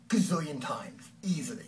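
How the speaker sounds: whispered aside. Real, not acted. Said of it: "whispered aside".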